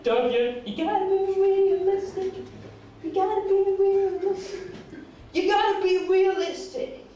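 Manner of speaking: mock Texan gangster president; bad Texan accent. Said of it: "in a Texan accent".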